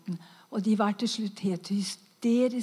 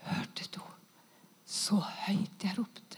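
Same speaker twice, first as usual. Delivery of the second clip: faint, much softer unvoiced question; weak whisper; 2 semitones lower, 7 dB quieter than usual. Woman asking her husband, faint whisper. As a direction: breathe the question out weakly. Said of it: "Og så sa jeg".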